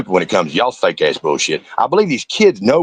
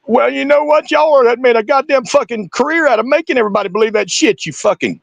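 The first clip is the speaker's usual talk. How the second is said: furious rant; 14 semitones higher than usual. Real, not acted. Shouting back at a YouTuber's video, furious. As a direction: yell it, fed up and furious.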